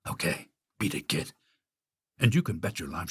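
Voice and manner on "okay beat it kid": low, hushed, breathy softness; murmured. Acted. Huntsman quietly letting Snow White escape, murmuring. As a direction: let her go under your breath. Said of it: "He murmured".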